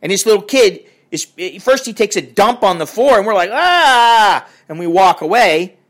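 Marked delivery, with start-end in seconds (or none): 3.5-4.5 long, high retold "ah" of disgust; mock disgusted cry. Onlookers recoil from a child's mess, mock disgusted cry.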